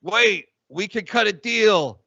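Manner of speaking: lightly voiced defeated Doctor Fauci. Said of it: "He goes".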